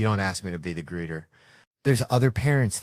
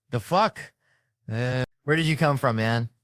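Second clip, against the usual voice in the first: high-pitched startled question; 4 semitones higher than usual. Retold or imitated. Comic reacting to a sudden greeter, startled. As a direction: jump up in pitch, taken aback.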